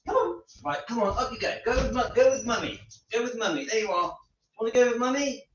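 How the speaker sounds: high, soft pet-talk voice; coaxing the dog. Real, not acted. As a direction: sweet-talk a dog into going along.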